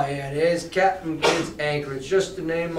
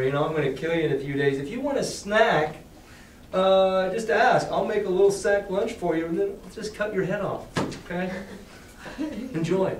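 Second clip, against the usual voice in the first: mock sinister cheer; 3 semitones higher than usual. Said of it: "Hey, Jim".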